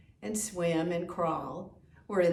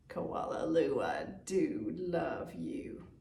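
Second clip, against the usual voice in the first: slow loving whisper; tender whispered I do love you; whispered refrain; 4 semitones lower, 5 dB quieter than usual. Acted. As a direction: breathe it softly like a secret.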